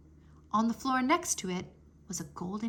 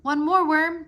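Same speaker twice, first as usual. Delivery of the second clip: high, loud cheer; 7 semitones higher, 9 dB louder than usual. A narrator's reading. Drake cheering Worm on, one stone left. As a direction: urge him on with delight. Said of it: "Drake cheered".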